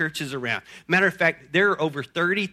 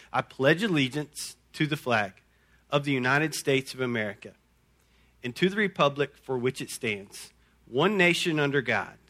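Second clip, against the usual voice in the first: no pause in "one nation under God"; correct version; 4 semitones lower, 4 dB quieter than usual. Shown as a demonstration. Preacher showing congregation the correct pledge, said unbroken. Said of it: "the correct version goes like this".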